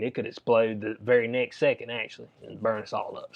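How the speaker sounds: a light take on an officer's easy reassurance; casually downplaying a bomb-level threat; mock calm. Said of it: "They come in and say that calmly".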